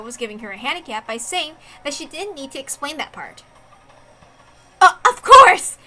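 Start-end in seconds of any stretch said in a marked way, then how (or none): 4.8-5.8 loud, high, superior retort; haughty insistence. Acted. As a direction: flaunt your entitlement. Detective haughtily claiming her right.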